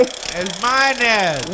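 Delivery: put-on slow New Orleans accent on "mayonnaise"; New Orleans accent, slow and deliberate. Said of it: "you didn't say mayonnaise".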